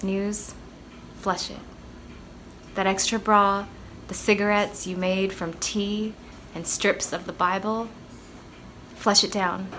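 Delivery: measured spoken-word reading with deliberate pauses; solemn, deliberate poetry reading; poem recitation. Acted. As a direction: recite the poem line by line, letting each phrase land. Recites own poem after introduction.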